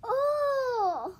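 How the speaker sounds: effortful oh with a cry in it; grunt. A narrator's reading. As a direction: grunt as if lifting something heavy. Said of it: "Louis grunted".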